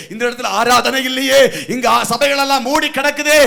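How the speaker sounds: rising to a high, loud wail; shouted lament preaching. Acted. (உரத்த புலம்பல் பிரசங்கம்)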